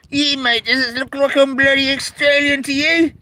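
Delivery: high, hammed-up mock indignation; a high mock-outraged Aussie mate voice; mock offended. To a chat viewer who called him Australian, high mock outrage.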